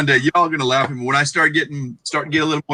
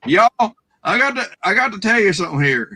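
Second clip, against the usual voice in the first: hammed-up Texas twang; 5 semitones higher than usual. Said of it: "just kinda go".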